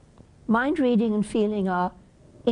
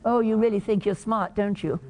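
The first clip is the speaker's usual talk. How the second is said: sarcastic. Shown as a demonstration. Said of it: "that's sarcasm".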